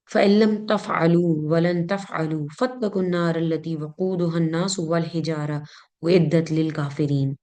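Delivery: measured Arabic verse recitation; Quran recitation. Acted. Teacher reciting a Quran example to students, measured recitation.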